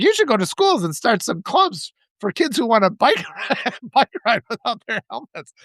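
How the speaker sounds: lifted, mock-helpful pitch; facetious suggestion. Teasing the helmetless cyclist to get a rise, facetious. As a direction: pitch a silly idea as if in earnest. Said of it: "I meant this all facetiously".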